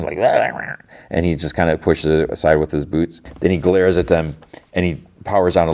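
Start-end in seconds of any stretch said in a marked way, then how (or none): 0.2-0.8 higher imitated mouse chatter; shrill squeaking. The mouse scolds Jod over the body, shrill squeaking. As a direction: squeak angrily like a tiny creature. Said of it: "shrilly at him".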